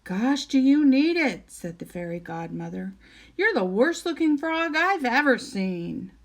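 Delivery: chirpy, surprised fairy godmother; bright teasing godmother. Acted.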